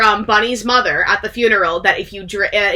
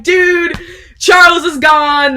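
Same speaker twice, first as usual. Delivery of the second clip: alarmed; 8 semitones higher, 6 dB louder, slower than usual. Retold or imitated. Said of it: "he's like".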